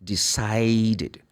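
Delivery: "Decided" with a clear extra syllable "id"; ID past ending. Shown as a demonstration. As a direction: end "Decided" in a distinct -id. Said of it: "produce the sound of id".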